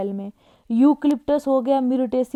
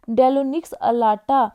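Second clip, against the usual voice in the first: slow, syllable by syllable, a bit louder; slow dictation; 4 dB louder, much slower than usual. Shown as a demonstration. Teacher dictating a plant name to students, slow and deliberate. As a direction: spell Deinonyx alata out slowly for notes.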